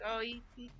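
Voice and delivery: put-on high, giggly kid voice, way up in pitch; little sister's voice. Imitating his little sister caught out by Dark's hello, high kid voice. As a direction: play the shy little sister, tittering. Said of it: "She's like".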